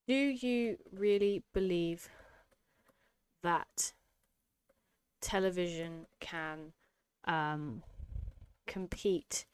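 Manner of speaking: slow, doubting "do you really believe"; incredulous rhetorical question. Shown as a demonstration. Teacher reading her own essay line with scornful doubt. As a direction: lean on the doubt so the answer is no. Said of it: "by the tone I've used in saying".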